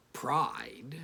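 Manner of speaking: breathy whisper on pride; whispered word. A narrator's reading. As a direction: hush the word pride with distaste. Narrated disgust at vice.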